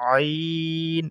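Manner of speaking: আইন from the middle of the throat, squeezed; আইন, কণ্ঠনালীর মাঝখান থেকে; Arabic letter ain. Shown as a demonstration. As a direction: press আইন out of the mid throat. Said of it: "কণ্ঠনালীর মাঝখান থেকে কিন্তু উচ্চারণ হবে".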